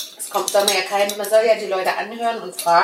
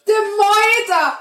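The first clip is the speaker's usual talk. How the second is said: laut herausgelacht, hoch und gedehnt; lachend; 12 semitones higher, 5 dB louder, slower than usual. Real, not acted. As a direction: lachend ausrufen. Tochter lacht über Wortspiel.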